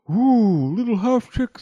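high, loud storybook wail; pleading fire. A narrator's reading. Choked fire calling to Little Half Chick, urgent.

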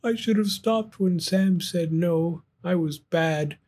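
ashamed and sad; regretful. Acted. Gus sad in jar.

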